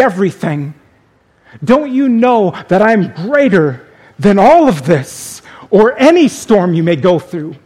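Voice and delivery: earnest pleading, building in intensity; earnest plea. Shown as a demonstration. Jesus asking "don't you know me?", earnest plea. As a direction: plead with measured pauses between questions. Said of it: "more of a plea".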